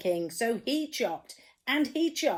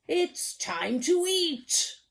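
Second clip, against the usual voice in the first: higher, slow, pleased announcement; announcing dinner; 9 semitones higher, 5 dB louder, slower than usual. Acted. King happily telling the cook to eat. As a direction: ring the dinner bell.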